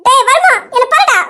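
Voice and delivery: exasperated outburst; angry demand. Acted. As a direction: order him rudely to look at you. Wife snaps, addresses husband rudely.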